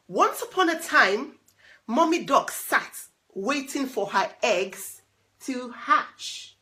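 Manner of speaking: put-on lively read-aloud to a child; storybook reading. A narrator's reading. Parent reading a storybook to a child, lively. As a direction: tell it like a bedtime picture book.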